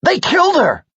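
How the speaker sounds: loud high anguished shout; anguished cry. Acted. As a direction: cry out the loss. Friend killed.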